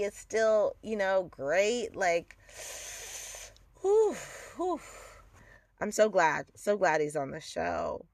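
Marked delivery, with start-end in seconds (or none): 3.8-4.8 high-pitched airy "whew"; hot-and-bothered exhale; swooning whew. Real, not acted. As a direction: let out two high whews of admiration. Swooning over an attractive actor.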